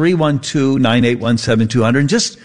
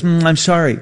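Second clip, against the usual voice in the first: mock disappointed; 4 semitones higher than usual. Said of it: "she was so disappointed".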